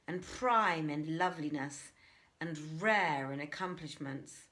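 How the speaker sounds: mildly swelling with imagined glory; a touch of a braggart picturing his wedding; grand daydream. Acted. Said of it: "he continued".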